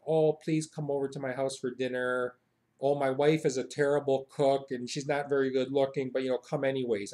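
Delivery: understated humble host; mild, self-deprecating invitation; modest and humble. Acted. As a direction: play down everything as you invite them. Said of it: "known for being very modest and humble".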